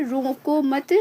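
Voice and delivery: "रोको मत" as one unit, then stop; pause after मत. Shown as a demonstration. Teacher introduces second example, "रोको मत" joined before a pause. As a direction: join "रोको" to "मत" and halt there. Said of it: "वहीं पे दूसरा नंबर है".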